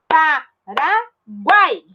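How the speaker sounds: Paraguai stretched very slowly as one flow; slow demo. Shown as a demonstration. Teacher stretching Paraguai so kids hear the triphthong. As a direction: draw out Paraguai, keep it together. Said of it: "Não separa, ó".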